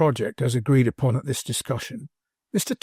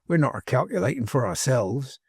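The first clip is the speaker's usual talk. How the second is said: "ourselves" with emphasis on "selves"; stress on last syllable. A narrator's reading. Manservant hinting to his master, "ourselves" stressed on "selves". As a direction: lean on the end of "ourselves". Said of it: "uncommon emphasis on the last syllable".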